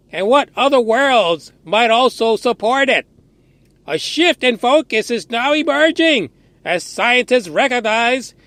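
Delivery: a light hint of a nerdy reader, slowed on the opening; lightly put-on nerdy official reading; nerd voice. Shown as a demonstration. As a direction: read it like a prim science nerd. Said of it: "try to get my nerd voice going".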